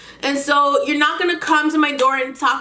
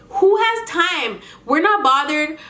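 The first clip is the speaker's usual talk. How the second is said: higher, slow, incredulous scoff; 4 semitones higher, slower than usual. Real, not acted. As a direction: drag it out in disbelief. Scoffing at neighbor's request.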